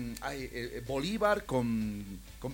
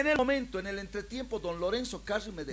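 relato exaltado; 5 semitones higher, 5 dB louder than usual. Retold or imitated. Relata indignado el despido.

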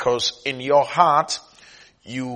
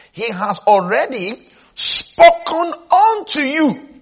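higher, measured preacher's declaration; emphatic preaching; 8 semitones higher, 5 dB louder than usual. Real, not acted. Preacher declaring a verse to the congregation, emphatic. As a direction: drive each word home from the pulpit.

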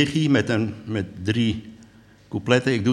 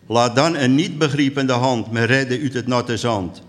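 measured, lilting poem reading; unhurried verse delivery; poem recital. Acted. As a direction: recite it line by line with deliberate pauses.

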